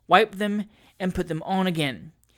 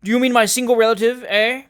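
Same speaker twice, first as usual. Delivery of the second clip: knowing tease; 5 semitones higher, 8 dB louder than usual. A narrator's reading. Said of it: "with a knowing shake of the head".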